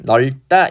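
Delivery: 넓다 said as neol-tta; standard pronunciation demo. Shown as a demonstration. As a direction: keep the l in 넓다, tense the tt. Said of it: "이렇게 발음이".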